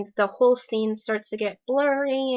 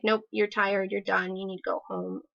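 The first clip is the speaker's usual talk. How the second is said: brain voice; 4 dB quieter than usual. Retold or imitated. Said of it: "my brain is like".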